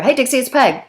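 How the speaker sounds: quick businesslike hello, straight to the point; just state who's calling, no chit-chat; brisk direct greeting. Retold or imitated. Peg calling Dixie, curt and businesslike greeting. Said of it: "if Dixie spoke that way".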